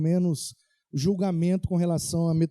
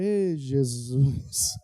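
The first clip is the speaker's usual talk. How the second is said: long-drawn, lower groaned exclamation; retold dismay; 5 semitones lower, much slower than usual. Driver hears the biker's wife is in labor, drawn-out dismay. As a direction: stretch it out slowly, sinking in dismay.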